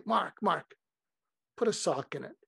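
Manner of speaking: mild, affectionate mock scolding; loving. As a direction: gently tell a friend to stop fretting. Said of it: "say it with such love".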